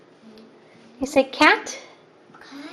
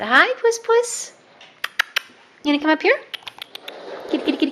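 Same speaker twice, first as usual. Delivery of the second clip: cooing to the cat; 5 semitones higher, 3 dB louder, faster than usual. Real, not acted. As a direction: coo sweetly up high, drawing it out. Greeting the cat.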